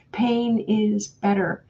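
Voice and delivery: slow, light imitation of a German accent; hint of a German masseuse's accent, drawn out; mock German accent. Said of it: "in her strong German accent".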